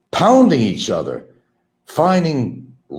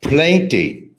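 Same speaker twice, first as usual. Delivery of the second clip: mimicked Filipino accent, higher; 5 semitones higher, 4 dB louder than usual. Imitating ex-girlfriend from Hawaii, higher Filipino accent. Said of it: "in her accent".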